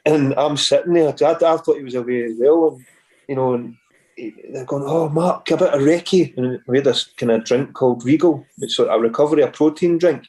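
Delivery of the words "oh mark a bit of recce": lightly mocking, pitched higher; mocking imitation. Teammates hammering the manager behind his back, mocking. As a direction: tease by parroting the boss's request. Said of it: "they start hammering him behind his back".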